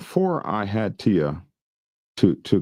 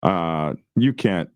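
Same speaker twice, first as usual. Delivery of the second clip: stuttering; slower than usual. Real, not acted. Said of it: "you got me stuttering".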